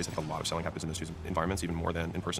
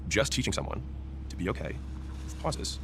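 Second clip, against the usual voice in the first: slow, breaking after "someone" and after "okay"; deliberate pauses; slower than usual. Shown as a demonstration. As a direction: stop before "to be okay" and before "with pauses". Demonstrating pauses while teaching them.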